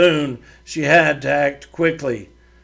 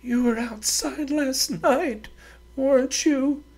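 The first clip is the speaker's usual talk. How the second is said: higher, prim and demanding; a proud woman giving orders; haughty lady voice; 11 semitones higher, 4 dB quieter than usual. Acted. Doreen accuses Henry.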